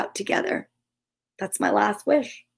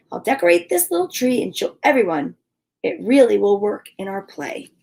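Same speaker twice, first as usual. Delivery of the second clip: gentle read-aloud storytelling voice; story narration. A narrator's reading. Host reading a Charlie Brown Christmas story to viewers, storytelling voice. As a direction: read it like a bedtime story for kids.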